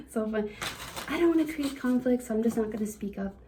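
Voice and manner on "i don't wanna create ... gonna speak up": mock excuse. Mocking hesitant viewers' excuse.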